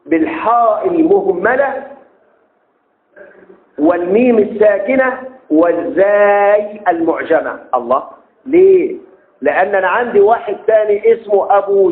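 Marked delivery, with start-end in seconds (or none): 0.1-7.6 slow spelling out. Shown as a demonstration. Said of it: "أنس بن مالك أبو حمزة".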